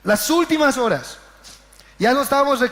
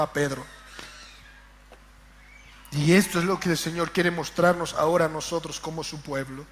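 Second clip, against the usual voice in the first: hushed sermon; 7 semitones lower, 6 dB quieter than usual. Acted. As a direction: draw the church in close and quiet. Quiet reflective sermon close.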